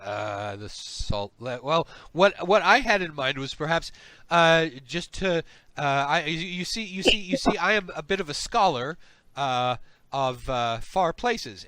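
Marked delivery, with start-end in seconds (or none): 1.6-11.7 higher, flustered stammering eagerness; eager scholar. Acted. Slug scholar coaxing the visitor along, flustered eagerness. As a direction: stumble eagerly over the words, pitch raised.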